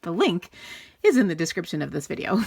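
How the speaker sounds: winded from running upstairs; breathless, catching her breath. Real, not acted. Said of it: "Sorry, I'm out of breath".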